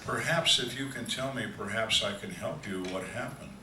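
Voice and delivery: "perhaps" leaned on as a careful hedge; stress on perhaps. Retold or imitated. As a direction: put gentle emphasis on each "perhaps". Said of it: "Emphasis on the word perhaps".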